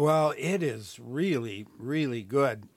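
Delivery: talking through a mouthful of ice cream; words round a bite of ice cream; mouth full. Real, not acted. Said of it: "here I am talking with my mouth full again".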